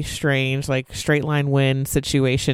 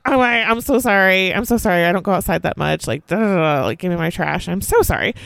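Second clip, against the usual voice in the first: higher, fast flustered apologizing; mock frantic apology; 3 semitones higher than usual. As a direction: gush apologies all over yourself. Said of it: "So I'm like".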